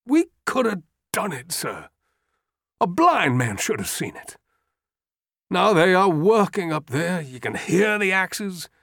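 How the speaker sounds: put-on an old soldier mourning tomorrow's dead; despairing old general. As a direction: let the anger sink into grief. Trimble near tears, despairing.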